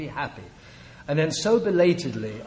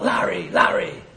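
drawn-out call across a crowded stadium; raised, stretched-out mock shout; imitated yell; 4 semitones higher, 4 dB louder than usual. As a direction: imitate someone hollering a name from afar. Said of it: "he hears somebody yell out".

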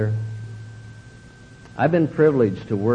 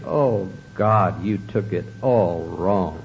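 slow, lower, weary put-down; sarcastic dismissal; 5 semitones lower, slower than usual. Retold or imitated. Drunk husband twisting the blame onto his wife, slow sarcastic dismissal. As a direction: brush her off with mock exasperation. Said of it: "go into my alcoholic routine".

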